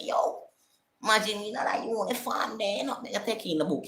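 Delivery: very high, giddy daydreaming; retold giddy excitement; excited. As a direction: gush in a high pitch, picturing it all. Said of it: "I'm getting excited".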